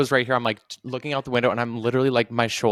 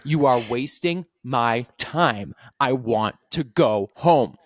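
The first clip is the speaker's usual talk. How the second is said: slow, drawn-out aggrieved rant; whiny, slow mock grievance; imitating angry complaint; much slower than usual. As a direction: drag each line out like a bitter complaint. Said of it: "She's like".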